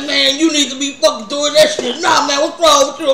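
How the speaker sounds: half-laughing rebuke; laughing mock scolding. Teller retells scolding the cart worker while laughing.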